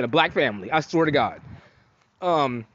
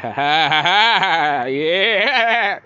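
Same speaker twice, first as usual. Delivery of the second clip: mock giggle; 4 dB louder, much slower than usual. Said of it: "kinda giggling a little bit".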